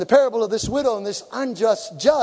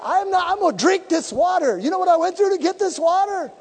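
defiant shout; 8 semitones higher than usual. Retold or imitated. Preacher retelling his stand over the soapy water, defiant shout. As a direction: belt it out like nothing will stop you.

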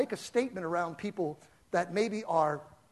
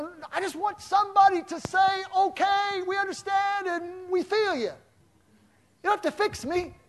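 pleading; 12 semitones higher, 5 dB louder than usual. Real, not acted. Pleading, high pitched.

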